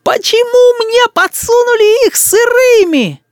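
put-on high, slow yelling little boy; boy's furious yell. A narrator's reading. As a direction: bellow it like an outraged child. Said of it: "изо всей силы завопил рис". (вопль рассерженного мальчишки)

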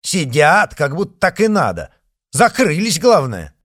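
loud, high indignant griping; indignant complaint. A narrator's reading. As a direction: complain loudly at the cabin. Indignant dacha woman complaining.

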